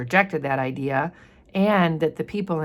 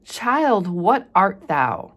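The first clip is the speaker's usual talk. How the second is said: startled mother; 4 semitones higher, 4 dB louder, much slower than usual. Acted. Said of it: "And she's like".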